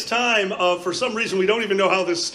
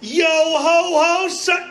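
jaunty pirate reply; 8 semitones higher, slower than usual. Retold or imitated. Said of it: "And he goes".

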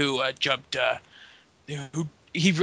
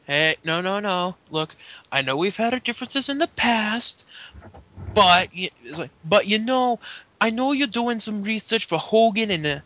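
put-on Bronx accent; 4 semitones higher than usual. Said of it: "None of us could do a Bronx accent".

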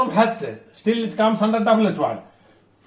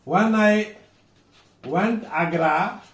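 when I, pause, went Agra left rising; slow, unfinished lift on Agra; slower than usual. Shown as a demonstration. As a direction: demonstrate incomplete when I went Agra, ending upward. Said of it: "rising ଷ୍ଟୋନ ପାଇଁ incomplete".

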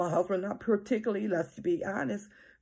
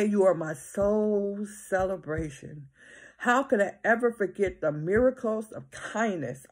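scripture reading; 3 semitones lower than usual. Acted. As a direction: read it like a prayer from the pulpit. Reads psalm aloud in sermon.

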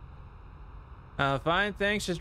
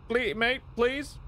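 put-on Australian accent; 7 semitones higher, slower than usual. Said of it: "is he Australian".

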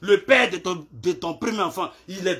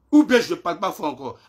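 speaking up; 2 semitones lower than usual. Real, not acted. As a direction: raise your voice to be sure it carries.

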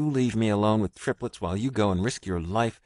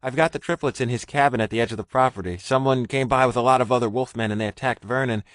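higher, louder, fast frantic babble; rushed and frantic; 5 semitones higher, 4 dB louder than usual. A narrator's reading. Frightened Richard blurting his story to a stranger, frantic. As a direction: pour it out in a panic. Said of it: "Richard's words were rushed and frantic".

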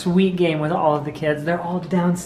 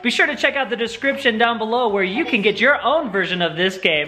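game show host. Pretend. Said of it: "that's just my host".

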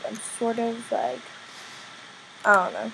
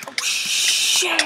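louder, higher alarmed curse; sudden panicked yell; alarmed shout; 6 semitones higher, 6 dB louder than usual. Real, not acted. Sudden fall in game.

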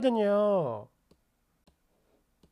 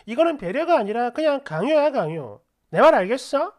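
retold angry reprimand, louder; angry scolding; 2 semitones higher, 4 dB louder than usual. Wife tells husband his consideration is coercion, angry and loud. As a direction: lay down the law at him.

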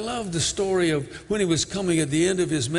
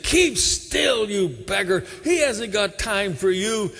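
crowd hushing; 4 semitones higher than usual. Acted. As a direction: shush the beggar sharply and impatiently.

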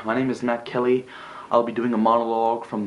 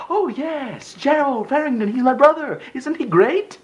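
very high, gushing parody of modest pride; sarcastic, squealing enthusiasm; mock proud delight; 3 dB louder than usual. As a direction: fake a delighted brother's boast. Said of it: "smiled modestly and laughed and said".

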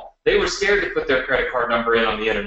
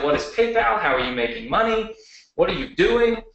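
higher, alarmed dad voice; imitating worried dad; 7 semitones higher than usual. Son imitates his alarmed dad questioning PayPal, mock-worried. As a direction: play the dad freaking out, half-mocking. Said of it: "he was freaking out".

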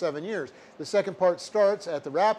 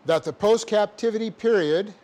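dictating. Shown as a demonstration. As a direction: dictate it word by word, punctuation aloud.

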